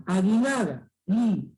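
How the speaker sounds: "Aguinaga", then "Gui" alone, no U sound; silent U. Shown as a demonstration. Teacher shows that manner of saying "Aguinaga", U silent. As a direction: pick out "Gui", hard G straight into I. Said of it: "De esa manera".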